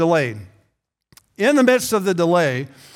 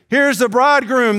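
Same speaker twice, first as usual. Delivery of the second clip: a raised herald's cry, higher and louder; calling out; 4 semitones higher, 3 dB louder than usual. Retold or imitated. Midnight watchman crying out to the sleeping bridesmaids, calling out loud. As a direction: call it out across the house.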